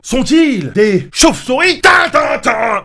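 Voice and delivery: high, slow spooky question then sung stinger; dramatic sting. Acted. Mocking suspense after the brothers vanish. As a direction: ham up a horror cue.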